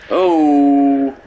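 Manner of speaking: sudden loud gasp of surprise; jolted by a scare; startled oh. Real, not acted.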